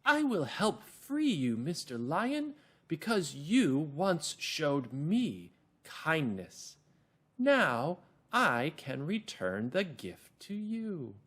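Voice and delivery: high, slow, tiny mouse voice; small little mouse voice. Acted. The mouse offers to free the trapped lion, in a high, small voice. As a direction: squeak it out gently like a little mouse. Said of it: "Small little voice".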